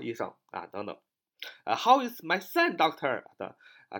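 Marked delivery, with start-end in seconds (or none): 1.7-3.2 hospital visitor asking. Acted. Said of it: "这是我们常常去医院问的啊".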